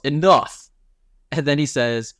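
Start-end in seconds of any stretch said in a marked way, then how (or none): 0.0-0.7 a sharp, louder call to stop a fight; mock yell. Director cutting off the two heroes, a mild mock yell. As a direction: bark it out to break them up. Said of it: "somebody yells".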